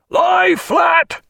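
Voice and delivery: huge roaring command. A narrator's reading. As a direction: bellow it across the deck. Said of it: "he roared".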